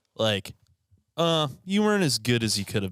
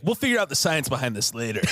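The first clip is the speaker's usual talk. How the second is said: laughing shout; 4 semitones higher than usual. Retold or imitated. Mock quote, laughing shout.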